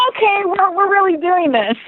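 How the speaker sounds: high-pitched squeal of disbelief; re-enacted excited squeak; retold nervous excitement. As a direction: pitch it way up, giddy that it's really happening. Reaction when rehearsal email finally came.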